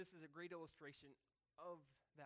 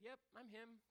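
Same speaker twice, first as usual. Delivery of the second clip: mock impostor; 8 semitones higher than usual. Impostor mocks Peter.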